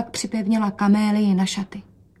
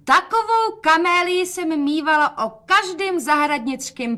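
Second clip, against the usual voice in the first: calling out; 9 semitones higher than usual. Acted. Mother calls out about her old ball camellia. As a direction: call it out proudly across the room. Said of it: "a volala".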